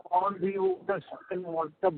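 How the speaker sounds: muffled and faint, like a hand over the mouth. Real, not acted. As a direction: speak through a muffled line. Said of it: "your voice is muffled".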